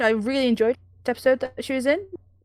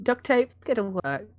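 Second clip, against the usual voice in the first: DIY show host; 4 semitones lower, 5 dB quieter than usual. Pretend. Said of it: "It's like a D I Y show".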